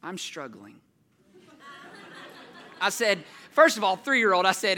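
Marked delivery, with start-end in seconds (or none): 0.0-0.8 put-on sheepish child confession. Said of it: "long pause".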